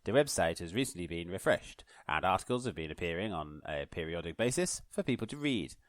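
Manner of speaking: formal newsreader delivery; posh voice. Shown as a demonstration. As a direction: read it like a BBC announcer. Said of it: "Oh, no, posh voice".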